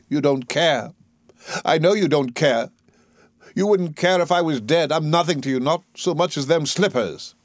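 pained, insistent reproach; hurt accusation. Acted. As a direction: accuse him with wounded resentment. Eliza accuses Higgins of not caring.

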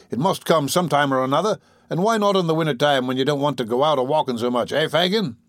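lightly voiced eager dupe; a hint of a chatty, gullible dupe. Tom justifies himself to Fagin, lightly voiced dupe.

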